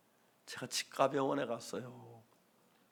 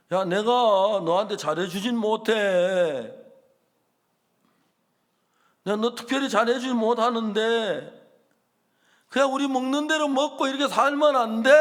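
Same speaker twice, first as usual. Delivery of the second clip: loud, pleading rebuke to a friend; angry scolding; 6 semitones higher, 11 dB louder than usual. Retold or imitated. Pastor scolding the ex-convict for leaving, loud and pleading. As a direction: raise your voice, scolding out of care. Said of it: "내가 화가 났어요".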